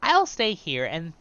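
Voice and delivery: a gossipy hobbit sharing a secret. Acted. A hobbit tells the traveller about hide and seek, chirpy. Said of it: "I'm actually doing the voices".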